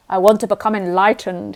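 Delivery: loud, puffed-up claim with weight on want; mock the seeker's arrogance, loudly; a proud declaration, pressing on want; arrogant boast. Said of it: "is like an arrogance".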